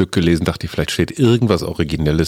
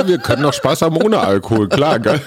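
laughing; 7 semitones higher, faster than usual. Real, not acted. Joking, laughing reply.

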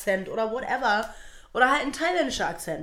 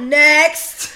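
loud, higher call; curt dismissal; 5 semitones higher, 11 dB louder than usual. Acted. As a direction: call out the next one. Dismisses someone in an acted bit.

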